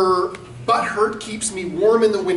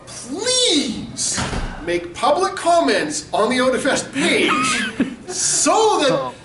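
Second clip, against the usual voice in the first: mock sweet request; 7 semitones higher, slower than usual. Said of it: "mock sincere request".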